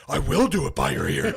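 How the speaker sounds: playful mock yell. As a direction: taunt the lineman gleefully. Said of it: "He starts yelling".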